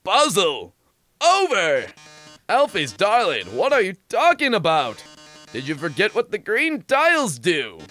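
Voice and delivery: slow, hammy dramatic reveal; theatrical villain host. Acted. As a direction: drag out the big reveal. Robot host taunting.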